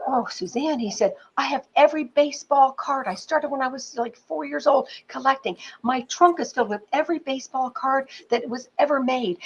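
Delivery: a hint of a keen baseball fan gushing; excited student. Student to teacher, lightly voiced eager fan.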